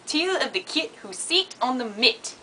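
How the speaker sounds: practised New Zealand phrase; careful New Zealand accent demo. Shown as a demonstration. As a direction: recite it with New Zealand vowels. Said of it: "cool phrases here that this lady taught".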